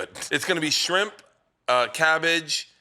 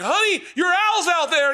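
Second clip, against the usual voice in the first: imitating wife calling; 6 dB louder, slower than usual. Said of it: "wife's like".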